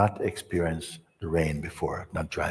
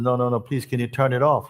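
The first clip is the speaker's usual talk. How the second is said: higher, pleading panic; panicking; 4 semitones higher, 3 dB louder, faster than usual. Retold or imitated. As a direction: beg in a mild mock panic. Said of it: "And he's panicking".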